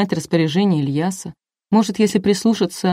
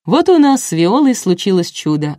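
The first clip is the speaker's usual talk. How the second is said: mild showman's proclamation; host's upbeat narrated announcement; announcing; 4 dB louder than usual. A narrator's reading. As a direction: announce a wonder to the audience. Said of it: "оповестил Коля".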